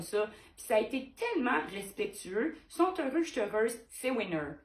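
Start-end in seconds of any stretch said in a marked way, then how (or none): 2.7-4.5 excited. Real, not acted. Artist cheering a deal that left everyone happy, excited. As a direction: lift it up, delighted. Repeats happy outcome, emphatic.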